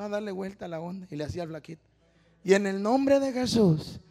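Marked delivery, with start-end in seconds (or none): 2.4-4.0 lightly imitated slow preaching drone; skinny preacher's delivery. Showing how the skinny man preached, slow droning delivery. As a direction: draw the phrase out slowly, mildly mocking. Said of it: "Así predicaba, mire".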